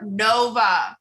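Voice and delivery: stern shout at the dog; sharp call. Real, not acted. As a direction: shout the dog's name.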